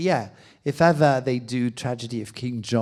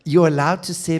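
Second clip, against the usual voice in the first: excited; 5 semitones higher, 9 dB louder than usual. Real, not acted. Emphatic build, laughing.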